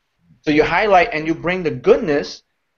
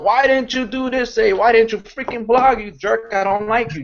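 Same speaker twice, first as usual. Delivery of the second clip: mock yelling boss; 6 semitones higher than usual. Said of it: "You don't yell at them".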